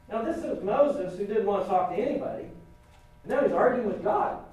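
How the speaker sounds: normal talking voice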